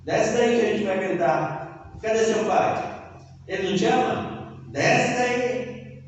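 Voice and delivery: passer-by sneering at the crucified Jesus; mocking passer-by. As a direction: taunt him like a scoffing onlooker. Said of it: "Olhava pra ele".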